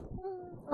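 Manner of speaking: small high, soft "mm"; neutral little hum. Acted. Streamer showing a neutral mood, small high hum. Acting out neutral idle reaction.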